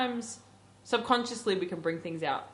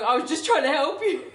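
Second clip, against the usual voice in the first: higher, mock-indignant self-defence; retold anger; 5 semitones higher, 3 dB louder than usual. Dreamer defending herself to friend in the dream, mock angry protest. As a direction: protest crossly, half laughing. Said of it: "I just got so angry".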